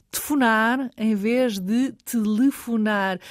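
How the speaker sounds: "Telefonar" squeezed to "tfonar", then "telefonar" with every syllable; slow contrast: clipped "Telefonar", then full "telefonar"; dropped syllables demo. Shown as a demonstration. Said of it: "eliminação de letras de algumas palavras".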